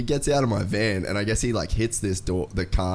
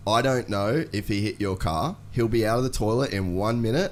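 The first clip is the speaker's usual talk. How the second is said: calm. Retold or imitated. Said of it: "And I said it that calm".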